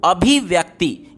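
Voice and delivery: slow, syllable by syllable "अभिव्यक्ति" with short i sounds; "अभिव्यक्ति" spelled out in sound, slow and clear; careful reading. Shown as a demonstration. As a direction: read "अभिव्यक्ति" out slowly, like a teacher. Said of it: "तो इसको कैसे पढ़ेंगे जानते हैं".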